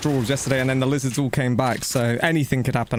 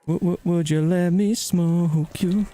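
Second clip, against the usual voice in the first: drawn-out, slow teasing taunt; slow put-on catchphrase voice; 3 semitones higher, much slower than usual. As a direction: stretch it out like a smooth-talking catchphrase.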